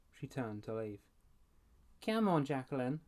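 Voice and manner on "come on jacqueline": mock whiny imitation. A narrator's reading. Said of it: "mocked in a whiny voice".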